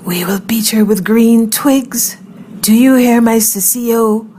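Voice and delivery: slow, high, eerie spirit voice; voiced otherworldly taunt, high and stretched; whispering juju breeze. A narrator's reading. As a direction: draw it out like a spirit on the wind. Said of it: "the juju breeze whispered something that sounded like".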